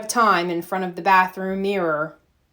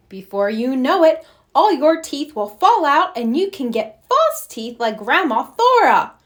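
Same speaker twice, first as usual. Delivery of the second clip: put-on higher, cheeky little-girl taunt; teasing little sister voice; 5 semitones higher, 4 dB louder than usual. Little sister teasing Arthur about false teeth, cheeky. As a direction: needle your brother sweetly.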